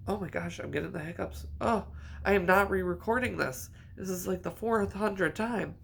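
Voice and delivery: real exasperation at hiccups spoiling the take; exasperated. Real, not acted. Hiccups interrupt yet another recording attempt.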